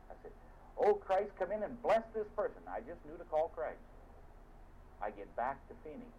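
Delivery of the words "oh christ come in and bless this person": calling out. Retold or imitated. Calling on Christ at crash.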